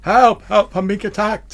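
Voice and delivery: high, loud panicked yelp; panicked cry for help. Acted. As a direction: squeal for help like a cornered technician. GM voices panicked NPC.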